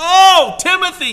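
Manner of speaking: acted, gut-wrenched pleading cry, very high, very loud. Quoting Paul's words to Timothy, acting out an anguished plea. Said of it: "you can feel the gut wrench of Paul towards Timothy ... like this, just ... almost a pleading in his voice".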